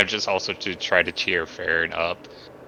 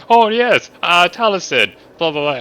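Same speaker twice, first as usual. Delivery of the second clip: high, louder mock Taliesin voice; imitating Taliesin; 8 semitones higher, 4 dB louder than usual. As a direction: ham up a mimic of a friend, then let it fall. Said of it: "imitating Taliesin".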